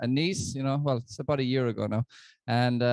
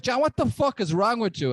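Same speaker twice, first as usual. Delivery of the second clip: retold angry dad; 8 semitones higher, 3 dB louder than usual. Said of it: "then he was like".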